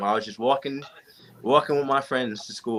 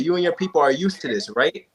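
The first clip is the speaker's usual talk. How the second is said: mocking racist cop; 5 semitones higher than usual. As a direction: repeat the cop's taunt with a hint of contempt. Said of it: "He said".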